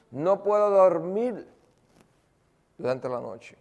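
imitated fearful plea; frightened confession. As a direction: confess the terror as the woman. Frightened woman confesses fear of death.

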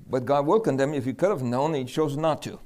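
fast, rushed aside; very quickly. Retold or imitated. Preacher sneaking the catch past his cousin, fast. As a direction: slip it in very quickly. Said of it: "But then I said it very quickly".

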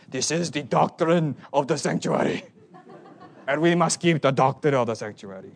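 hammed-up German pronouncement; weird German accent. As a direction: intone it solemnly in a bad German accent.

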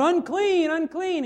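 leper calling out. Retold or imitated. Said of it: "you had to yell out".

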